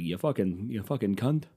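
shaky attempt at an English accent; half-hearted English accent, mock insult; bad English accent. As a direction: badly imitate an English accent while swearing. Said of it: "I can't do a good English accent".

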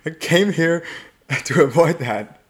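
mock-exasperated correction with a laugh in it; acted protest. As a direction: imitate a woman setting someone straight. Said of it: "But she's like".

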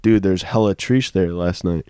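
lightly voiced frat boy, slow; a hint of a frat bro drawl. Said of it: "To sound like a frat boy".

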